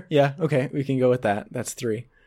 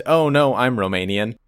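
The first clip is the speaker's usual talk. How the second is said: put-on Russian accent. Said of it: "in a Russian accent".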